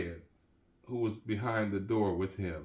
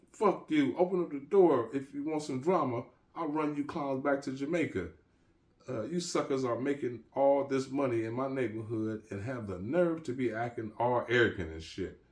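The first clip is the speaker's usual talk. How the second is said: angry shout; 5 semitones higher than usual. Acted. Gangsta Jake shouts through the bar gate at the dealers, high angry shouting. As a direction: dare them to open the door. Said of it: "Gangsta Jake shouted into the bar gate".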